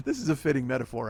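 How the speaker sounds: bitter laugh while talking; rueful laughing; laughing through words. Real, not acted. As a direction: laugh it out at your own bad luck. Laughing at own bad luck.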